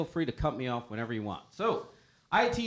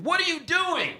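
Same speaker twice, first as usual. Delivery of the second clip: mock husband; 7 dB louder than usual. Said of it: "a masculine voice in the background saying".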